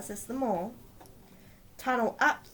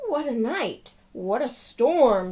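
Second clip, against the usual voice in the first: chirpy Wren; 4 semitones higher, 10 dB louder, slower than usual. Acted. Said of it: "twitters Wren".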